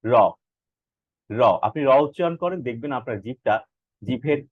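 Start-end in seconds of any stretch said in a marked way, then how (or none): 0.0-1.4 র tapped at the root of the upper teeth; isolated র, short front tap; tongue-tip R. Shown as a demonstration. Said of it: "সেটা উপরের পাটির যে দাঁত রয়েছে".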